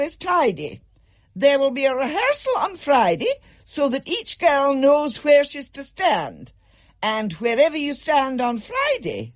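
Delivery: strict form teacher addressing pupils, firm and cold; stern schoolmistress. A narrator's reading. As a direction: lay down the law to a class of girls. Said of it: "fixing them with an iron gaze".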